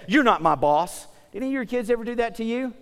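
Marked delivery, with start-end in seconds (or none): 0.1-1.1 slow, mild mock defiance of a kid; lightly voiced kid talking back; defiant kid. Kid mouthing off to a parent, mildly defiant. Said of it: "a kid will look at you and say".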